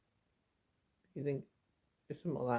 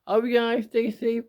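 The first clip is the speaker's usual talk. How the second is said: higher, louder, upbeat outro; on-camera sign-off; 5 semitones higher, 4 dB louder than usual. Shown as a demonstration. Retaking his outro for viewers after saying action, upbeat and a bit louder. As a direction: put on the cheerful presenter voice. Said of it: "And action".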